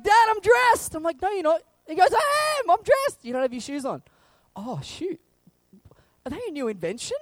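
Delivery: put-on high, insistent kid voice; kid and dad bicker. Son insisting he is dressed to dad, high. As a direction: act out the shoe argument.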